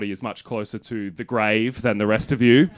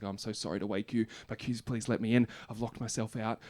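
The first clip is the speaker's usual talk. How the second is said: softer, lower, sheepish mumble; sheepish apology; 3 semitones lower, 13 dB quieter than usual. Retold or imitated. Comedian quoting his meek late-night call to housemates, sheepish and soft. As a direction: apologise meekly for waking them. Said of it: "sheepishly called my housemates".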